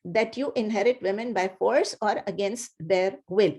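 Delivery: slow, deliberate English rendering; teacher giving the full meaning, slowly; slow translation. Shown as a demonstration. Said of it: "slow full translation".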